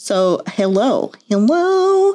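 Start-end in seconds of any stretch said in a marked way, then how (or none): 1.3-2.2 voice pushed very high, as far as it goes. Messing around, showing how high they can push a voice: very high-pitched voice. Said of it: "See how high I can make that voice go".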